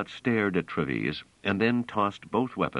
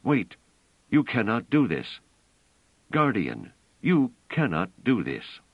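desperate strangled call; half-strangled cry; 6 semitones higher, 3 dB louder than usual. A narrator's reading. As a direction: cry out, choking with alarm. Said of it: "called out in a half-strangled cry".

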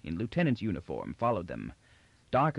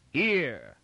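sudden concern; 4 semitones higher than usual. Acted. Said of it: "the guard's voice rose in sudden concern".

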